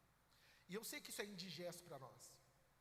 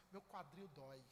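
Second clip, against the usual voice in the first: mock old mother; 7 semitones lower, 4 dB quieter than usual. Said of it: "ela só tem reclamação".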